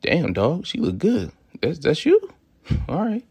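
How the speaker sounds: acted-out admiring buddy; impressed, approving. Shown as a demonstration. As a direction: hype up your buddy over his girl. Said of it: "in the sense of".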